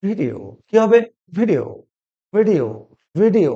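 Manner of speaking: ভিডিও said short with falling end; crisp model of ভিডিও for repeating; correct pronunciation. Shown as a demonstration. Teacher drilling students on the word, correct pronunciation. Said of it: "কি হবে?".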